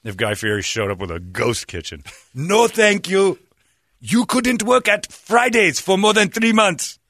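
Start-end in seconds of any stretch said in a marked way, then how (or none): 2.3-7.0 high, slow haughty refusal; mock villager voice. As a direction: refuse it grandly and slowly.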